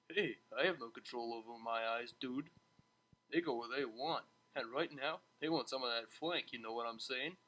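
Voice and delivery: low, soft, grinning stallion voice; a sly low hiss between friends; lightly voiced grinning stallion; hissed back, grinning. A narrator's reading. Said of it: "he hissed back".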